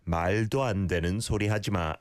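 말도 with a light, clear L in 말; quick 말도 안 되는 소리 하지 마 with a forward L in 말. Shown as a demonstration. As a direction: keep the L of 말 out of the throat. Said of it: "It's not a dark L sound".

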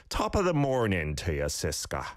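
light mock Irish accent; a hammy Irish lilt. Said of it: "try out my Irish accent".

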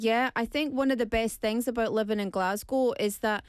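imitated broad Scottish boy; lightly voiced broad Glasgow Scottish; thick Scottish accent. Quoting the Korean boy living in Glasgow, Scottish accent. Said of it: "thick Scottish accent coming out of".

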